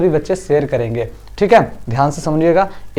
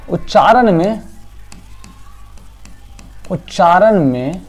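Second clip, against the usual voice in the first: slow, spaced dictation for copying; slower than usual. Shown as a demonstration. Teacher dictating a definition for students to copy, slow. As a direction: read it out slowly so pupils can write. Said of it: "dictating slowly for notes".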